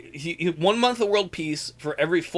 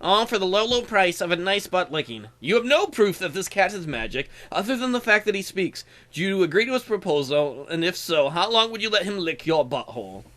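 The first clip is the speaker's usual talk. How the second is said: magic cat; 3 semitones higher than usual. Acted. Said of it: "He says".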